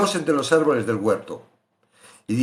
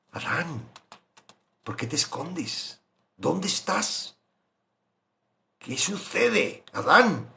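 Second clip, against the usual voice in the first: tender God calling; 3 semitones higher, 3 dB quieter, slower than usual. Acted. Voicing God softly calling Adam.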